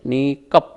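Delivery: नीकप with क pushed into प; long नी, then a firm कप in नीकप; stress on KA. Shown as a demonstration. Teacher repeats the joined ending, stressed KA. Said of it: "का को थोड़ा सा जोर देंगे".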